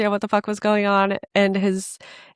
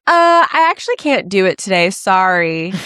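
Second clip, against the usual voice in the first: flaky cancellation; 5 dB louder than usual. Retold or imitated. Pam Anderson's cancelling note voiced.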